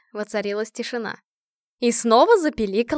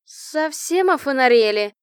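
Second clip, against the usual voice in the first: loud, drawn-out outrage; slow, loud indignant cry; indignant shout; 3 semitones higher, 7 dB louder, slower than usual. A narrator's reading. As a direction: yell in disbelief at the caller. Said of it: "возмущённо крикнула она".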